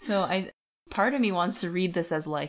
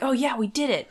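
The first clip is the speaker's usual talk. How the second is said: mocking smugness; 7 semitones higher, 6 dB louder than usual. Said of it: "they were like".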